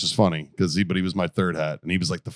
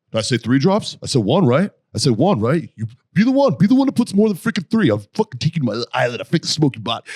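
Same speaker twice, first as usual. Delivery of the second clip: put-on louder, higher ranting Colombian-accented sergeant; impression of sergeant Catalan; 5 semitones higher, 4 dB louder than usual. Recruit imitating Colombian sergeant scolding platoon, high loud. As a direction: peak high and loud on you be the one. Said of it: "exactly verbatim how he would make us clean our weapons".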